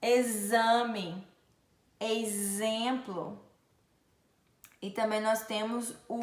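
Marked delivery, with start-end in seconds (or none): 0.0-3.5 "exemplo" slow, with buzzing z; X sounded as Z. Shown as a demonstration. Teacher showing X as Z, held z. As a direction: lengthen the z in "Exame" and "exemplo". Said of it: "um som de Z".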